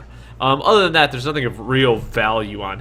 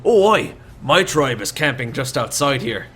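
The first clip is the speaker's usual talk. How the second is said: Shorty's voice; 2 semitones higher, 4 dB louder than usual. Acted. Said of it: "He goes".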